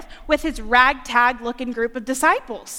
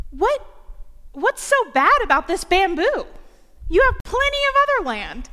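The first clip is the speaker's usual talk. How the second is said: put-on higher kid voice, curious; child asking; 5 semitones higher than usual. Grandchild asking granddaddy about the bamboo, childlike. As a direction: ask like a little kid.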